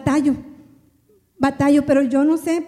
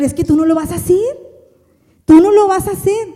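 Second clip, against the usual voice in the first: preaching God's word; 3 semitones higher, 5 dB louder than usual. Retold or imitated. Voicing God's words, preaching.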